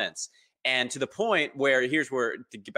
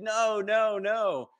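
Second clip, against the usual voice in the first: very high imitated little-kid protest; insistent daughter; 11 semitones higher, much slower than usual. Daughter correcting her dad, high imitated child voice. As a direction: pitch it way up like a small child correcting. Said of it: "And she said".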